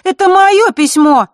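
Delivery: put-on outraged girl, protesting loudly; возмущённо. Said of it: "возмутилась Захара". (возмущённый выкрик)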